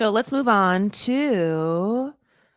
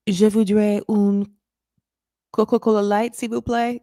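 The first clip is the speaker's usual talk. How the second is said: French order; 2 semitones higher than usual. Retold or imitated. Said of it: "comfortable with the phrase".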